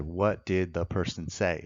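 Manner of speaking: a slow, spelled-out question to the witness; a measured courtroom question; slow, deliberate question. Shown as a demonstration. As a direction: ask it slowly, word by word. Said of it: "I said".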